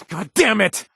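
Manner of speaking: sudden furious cry, pitched high and loud; angry outburst. Acted. Companion cursing his fear for the kid, furious shout. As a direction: explode in helpless anger. Frantic over captured kid.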